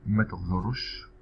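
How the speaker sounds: careful slow demo of ما تغزرش; ما تغزرش said slow and clear for learners; slow model. Shown as a demonstration. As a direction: say ما تغزرش slowly, syllable by syllable. Teacher models example slowly.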